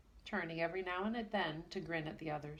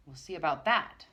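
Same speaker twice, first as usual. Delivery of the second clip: defiant; 7 dB louder than usual. Acted. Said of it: "said Pixie".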